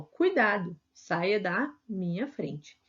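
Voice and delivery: urgent warning, then a slow command; "Cuidado" called out as a warning; warning demo. Shown as a demonstration. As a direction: warn someone sharply to get out of the way. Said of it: "ó".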